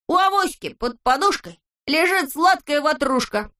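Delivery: high, sing-song poem reading; silly recitation. A narrator's reading. Neznaika recites his poem to the friends, sing-song.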